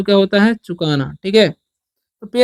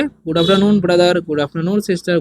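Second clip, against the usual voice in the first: slow dictation; much slower than usual. Shown as a demonstration. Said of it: "तो बोलेंगे".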